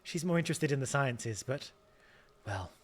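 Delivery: attempted Scottish accent. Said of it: "I can't do Scottish".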